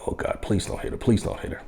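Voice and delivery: softly whispered, unvoiced plea; anxious whisper to yourself; whispered prayer. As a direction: breathe it under your breath, begging. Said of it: "And of course I'm like".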